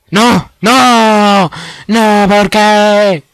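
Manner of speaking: loud high despairing cries; anguished shouting. Real, not acted. Fish escapes.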